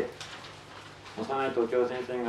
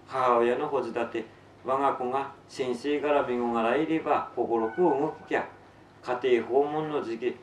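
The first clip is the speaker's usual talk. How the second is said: Tsugaru-dialect story reading. Acted. Author reads a novel to listeners in Tsugaru dialect, story narration.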